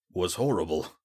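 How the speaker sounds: out of breath, weak; breathless. Acted. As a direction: gasp it out after the pain.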